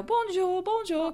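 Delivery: lightly imitated toddler, high-pitched; toddler greeting. Mother imitating her toddler saying hi to passengers, high child voice. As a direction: sing out a small child's high hello. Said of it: "he's saying hi".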